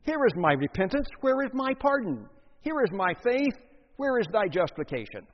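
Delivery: mock the man who trades for pardon; bargaining sinner. Preacher mimics a sinner who bargains with Christ. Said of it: "to hear a man plead for his pardon in this way".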